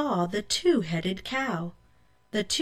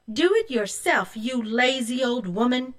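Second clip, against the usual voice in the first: sassy higher voice, talking back; a hint of a bratty girl snapping; rude retort; 4 semitones higher than usual. Rose refusing the old woman, rude and sassy.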